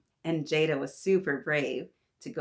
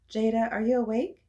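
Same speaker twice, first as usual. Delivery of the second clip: higher, louder checking question; Mama calling; 5 semitones higher, 5 dB louder than usual. A narrator's reading. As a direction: call to a child who may be asleep. Mama checks on child at night.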